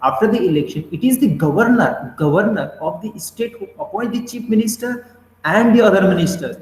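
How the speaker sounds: very slow, word by word, like dictating to a class; slow dictation reading. Shown as a demonstration. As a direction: read the English line slowly so students can note it down. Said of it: "teacher reads English definition aloud". (धीमे-धीमे dictation की तरह पढ़ते हुए)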